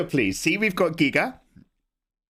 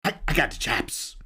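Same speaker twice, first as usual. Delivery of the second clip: higher, slow, oddly spaced Walken-style phrasing; Christopher Walken; 6 semitones higher, slower than usual. Retold or imitated. Streamer doing a higher, slow Walken impression for chat. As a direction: stretch each phrase out with odd pauses. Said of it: "We've got Christopher Walken".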